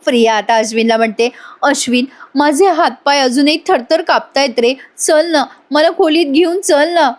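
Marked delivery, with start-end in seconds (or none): 1.6-7.1 higher, lightly played helpless plea; a hint of put-on weakness, milking sympathy; fake frailty. Priya begging Ashwin to take her to the room, mock frail. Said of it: "Priya काय drama करते बघा ना".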